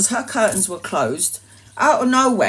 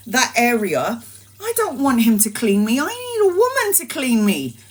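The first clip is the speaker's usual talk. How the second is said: mum's worried plea; 4 semitones higher than usual. Retold or imitated. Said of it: "my mum is like".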